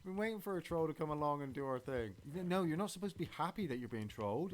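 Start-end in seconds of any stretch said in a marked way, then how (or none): 0.0-2.1 high, overjoyed thank-you to the troll; mock grateful. Podcasters mock-thanking a troll, high delighted voice. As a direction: gush thanks like you've waited forever. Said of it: "It's like".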